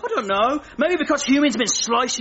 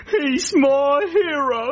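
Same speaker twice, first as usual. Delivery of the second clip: mock crying; 5 semitones higher, slower than usual. Frog moved by his rescue.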